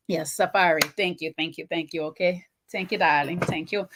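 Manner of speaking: soft, low, put-on Jamaican lilt; mock Jamaican accent. Thanking viewers for the name, soft mock Jamaican accent. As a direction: thank them lightly in imitation Jamaican. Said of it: "me no have to do the accent properly".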